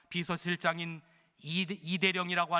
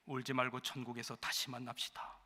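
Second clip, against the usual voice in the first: soft farewell; 5 semitones lower, 9 dB quieter than usual. Acted. Condemned man's farewell to inmates.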